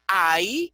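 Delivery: AHÍ drawn out to show the a-i vowels; slow teaching AHÍ, both vowels audible; diphthong demo. Shown as a demonstration. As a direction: sound out the vowel pair in AHÍ slowly. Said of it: "Hay un diptongo".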